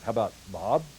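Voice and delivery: easy, upbeat "How about Bob?"; friendly phone greeting. Shown as a demonstration. Salesman calling a past customer, friendly confident ask. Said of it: "tone, and inflection in your voice".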